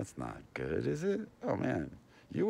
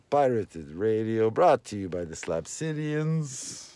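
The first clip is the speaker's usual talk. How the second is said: radio announcer; slower than usual. Acted. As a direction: boom it out like a pirate radio DJ. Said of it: "That has been".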